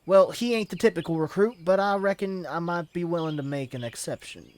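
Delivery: lightly put-on country accent; rustic accent try. Streamer trying yet another accent for the guild leader. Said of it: "No, that's not fucking it".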